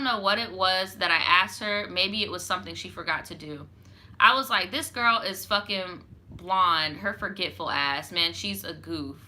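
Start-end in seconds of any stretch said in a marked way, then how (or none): 4.7-9.2 put-on Chicago accent, slow and offhand. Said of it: "in my Chicago accent".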